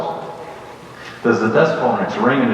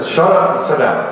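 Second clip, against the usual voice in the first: a louder, higher 'Shut up' barked as an order; firm retold command; 6 semitones higher, 3 dB louder than usual. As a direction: give the room a sharp command. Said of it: "I said".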